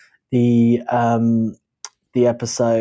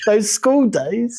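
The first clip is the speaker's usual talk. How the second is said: slow mock voice; 11 semitones higher, 4 dB louder, much slower than usual. Voicing Mon Mothma's school friend.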